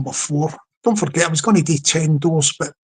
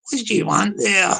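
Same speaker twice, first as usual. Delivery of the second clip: lightly voiced person behind the door; person inside challenging caller; 3 semitones higher than usual. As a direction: play the wary householder at the intercom. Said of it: "inside's going like that".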